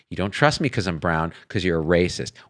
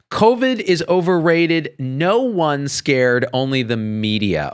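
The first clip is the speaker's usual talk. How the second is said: slow, deliberate reread; careful reread; 5 semitones higher, slower than usual. Retold or imitated. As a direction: spell out the garbled words. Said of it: "I had to read that five times just to get it right".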